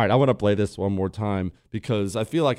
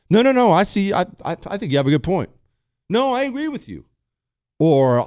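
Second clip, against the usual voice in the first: higher, hurried fake agreement; eager agreeing boyfriend; 8 semitones higher than usual. Husband caught not listening, quickly agreeing with his wife in a higher voice. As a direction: scramble to sound like you were listening. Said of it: "your answer in that moment always has to be".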